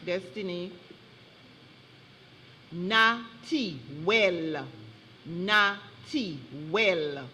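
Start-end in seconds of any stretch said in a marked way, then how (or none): 2.7-7.3 NATUREL slowly, syllable by syllable; careful dictation. Shown as a demonstration. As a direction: stretch each syllable of "Naturel" for a speller. Spelling bee pronouncer gives the word.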